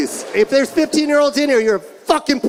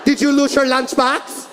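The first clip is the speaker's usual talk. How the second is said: higher mock yelling mother; mom yelling; 4 semitones higher than usual. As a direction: bark questions like his angry mom. Mom interrogation continues.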